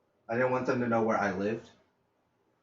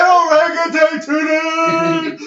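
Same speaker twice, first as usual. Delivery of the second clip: laughing repeat; 10 dB louder, much slower than usual. Retold or imitated. Repeating friend's joke, laughing.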